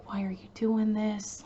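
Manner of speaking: soft whispered plea to the attacker; victim's hushed, calm question. Retold or imitated. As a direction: plead gently, barely voiced. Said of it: "talking to him in, like, a calm voice".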